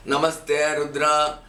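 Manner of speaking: Namaste Rudra recited slowly for the pupil to repeat; slow, clear teacher's recitation; teacher reciting. Shown as a demonstration. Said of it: "I will tell twice".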